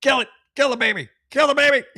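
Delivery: high, sneering mock voice; mocking quote. Host quoting the poster back at him, in a high mocking voice. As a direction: play the heartless poster, high and taunting. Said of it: "and yet you're like".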